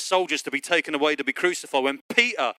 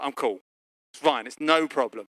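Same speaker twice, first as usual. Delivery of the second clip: calm, lower retold reassurance; understanding; 3 semitones lower than usual. Husband calming down after his moment, understanding. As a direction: let it settle, low and easy. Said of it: "I was very understanding".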